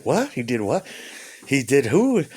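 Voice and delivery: puzzled, rising questions; mock bafflement. Vlogger mocking crime-show euphemisms, baffled. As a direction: play confused by the jargon.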